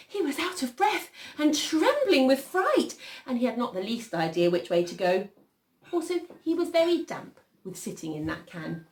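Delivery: animated storytelling with high swells; story narration. A narrator's reading. Reader telling children of lost Peter, animated storytelling. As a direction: lift high on the fright, then ease back. Reads a picture story aloud.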